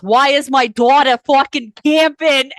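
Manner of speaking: mom's yell. Retold or imitated. Retelling the friend's mom on the phone: imitated loud yell. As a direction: belt it out like an outraged mom. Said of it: "Noelle's mom screams at me".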